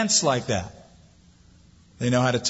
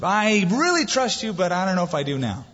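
torn Martha; 4 semitones higher than usual. Retold or imitated. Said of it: "I sort of picture her as".

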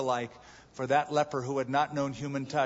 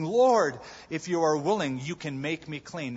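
pleading leper. Retold or imitated.

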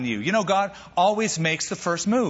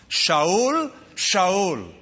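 first Shaul high and rising, second Shaul falling; two-beat calling of the name Shaul; double intonation; 4 semitones higher than usual. Shown as a demonstration. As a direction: call Shaul up, then Shaul down. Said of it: "the traditional double intonation of the name".

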